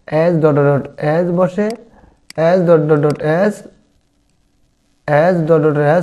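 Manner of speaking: very slow, each word stretched out for copying; slow dictation. Shown as a demonstration. Teacher dictating a sentence pattern to students, very slow. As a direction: dictate it slowly so everyone can write.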